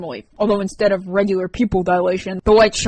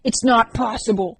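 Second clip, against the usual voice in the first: railing; 3 semitones higher than usual. Acted. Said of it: "Sam railed".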